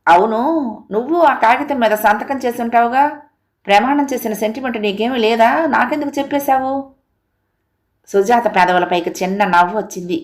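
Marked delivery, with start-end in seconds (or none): 0.1-6.7 higher, puzzled questioning; doubtful questioning. Acted. Husband to wife about her signed promise, mildly doubtful. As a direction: probe with mild suspicion. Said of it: "అనుమానం వచ్చి అడిగాడు".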